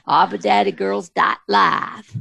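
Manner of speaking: slow western drawl; okie accent. Pretend. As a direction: lay on a slow country drawl. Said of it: "That's your Western voice?".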